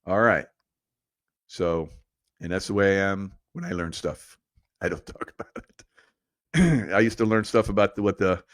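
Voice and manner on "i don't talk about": laughing. Real, not acted. Joking about keeping secrets.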